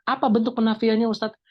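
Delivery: playing the student asking the teacher; teacher voicing a student's question; mock student question. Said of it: "teacher voices a student question".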